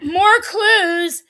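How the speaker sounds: loud, eager outburst; gleeful loud exclaim; excited exclaim. Real, not acted. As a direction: pounce on the clue. Host exclaims over reading.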